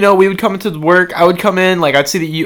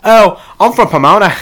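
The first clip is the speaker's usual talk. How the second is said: put-on Australian accent. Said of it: "should have just left it at that".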